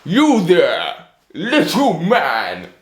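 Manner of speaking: loud, slow, booming giant call; giant roaring. Acted. Giant calling to the little tailor, loud and slow. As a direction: boom it out like a giant. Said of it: "roared the giant".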